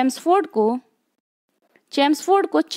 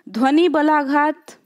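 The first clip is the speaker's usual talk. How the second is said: slow, emphasised term. Shown as a demonstration. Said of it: "इसको देखते चलिए".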